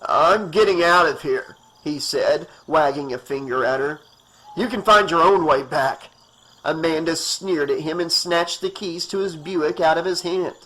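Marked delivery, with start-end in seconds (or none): 0.0-6.1 fed up. Acted. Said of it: "He was tired of her".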